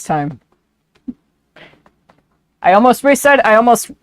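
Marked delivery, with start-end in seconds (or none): 2.6-3.9 high, loud eager detective voice; Gumshoe voice. Acted. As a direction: blurt it like a gung-ho cop. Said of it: "stuck in gumshoe voice now".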